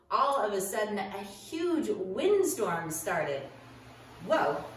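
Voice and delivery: put-on lively storytelling to kids; animated children's Bible story voice; story narration for children.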